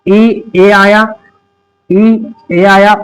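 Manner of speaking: letters drawn out slowly; slow, deliberate teacher spelling; slow spelled-out letters. Shown as a demonstration. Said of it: "जैसे हर्ब में".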